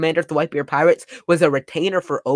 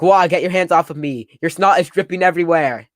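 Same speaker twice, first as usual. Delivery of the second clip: loud, higher-pitched mock complaint; acted annoyed protest; 4 semitones higher, 6 dB louder than usual. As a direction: push off clingy, weeping followers. Voicing Oden repelling weeping huggers.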